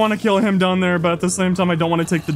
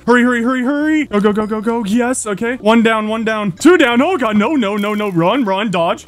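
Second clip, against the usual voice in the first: being chased; 4 semitones higher than usual. Real, not acted. Fleeing mobs in the game.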